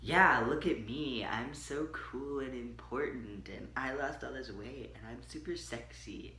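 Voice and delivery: whispered smug bragging; mock-cocky, hushed; mock arrogant. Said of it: "I don't wanna seem like".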